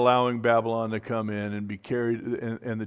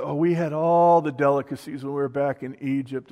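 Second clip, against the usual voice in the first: mild mock moan of nostalgia; a touch of exaggerated longing; mock complaining; 3 semitones higher, 4 dB louder than usual. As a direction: lightly imitate people grumbling for old comforts. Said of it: "they started complaining".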